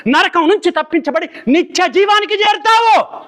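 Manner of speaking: fervent pulpit call building to its height; full-force preaching. Acted. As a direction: drive the sermon home to the congregation. Preacher's rising climax.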